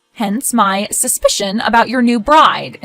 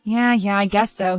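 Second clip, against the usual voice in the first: reluctant agreement. Acted. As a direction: agree without believing it. Grudgingly agrees to keep fighting.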